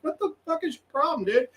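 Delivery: high, incredulous scold at the bird; exasperated scolding. Retold or imitated. Man standing over a panting seagull, high mock outrage.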